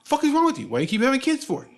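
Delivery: high, loud exasperated ranting; mad. Retold or imitated. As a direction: imitate a fed-up father scolding his son. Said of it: "he would always get mad".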